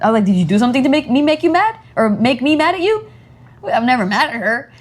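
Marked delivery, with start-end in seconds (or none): 0.2-3.1 put-on higher-pitched parent-to-child voice; playfully puzzled retold mother, pitched up; motherly reassurance. Mother questions child in retold talk.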